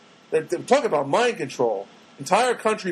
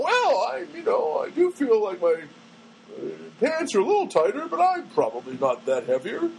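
mock self-denial; 3 semitones higher than usual. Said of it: "going around going".

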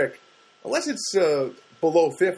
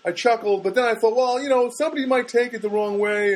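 imitating friend; 7 semitones higher than usual. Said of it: "And then he said to me".

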